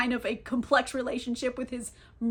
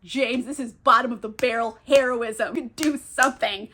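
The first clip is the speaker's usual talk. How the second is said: exasperated scolding; 4 dB louder than usual. Real, not acted. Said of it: "It pisses me off".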